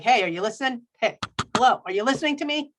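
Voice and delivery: insistent attention-getting, rising at the end; mock mild yelling. Preacher voicing the author's all caps, mild mock yell. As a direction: imitate someone calling for attention, only half yelling. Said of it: "he's kinda yelling at me".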